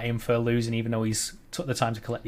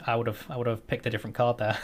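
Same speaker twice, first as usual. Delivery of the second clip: quick, softer wry aside; wry comment; 5 dB quieter, faster than usual. Acted. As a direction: toss it off dryly, a little fast. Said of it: "a, a wry comment".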